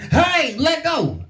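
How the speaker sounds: high, slow pained plea; strained high cry. Retold or imitated. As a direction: drag it out like a hurting joint. Knee groaning in pain.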